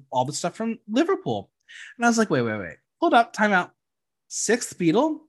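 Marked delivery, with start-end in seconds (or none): 2.3-5.2 building from stunned to loud, high disbelief; mock-shocked, rising to a yell; incredulous outburst. Retold outburst at RuPaul.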